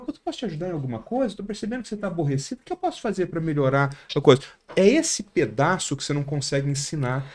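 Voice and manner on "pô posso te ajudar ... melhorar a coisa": mild caring offer. Shown as a demonstration. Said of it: "Eu falo".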